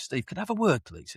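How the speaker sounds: lightly imitated posh accent, high start dropping to a soft "please"; posh headmaster. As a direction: put on a mildly posh, polite summons. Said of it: "In this very posh word".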